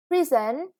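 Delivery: Prison with the first syllable stressed. Shown as a demonstration. Teacher models the stress on Prison for the class. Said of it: "the first syllable is stressed again".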